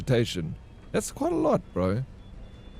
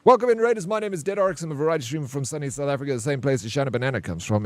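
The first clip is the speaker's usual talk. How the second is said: streamer's welcome patter; 2 semitones higher, faster than usual. Acted. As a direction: greet the raiders like a practised host, speeding up. Rattles off streamer intro for raiders.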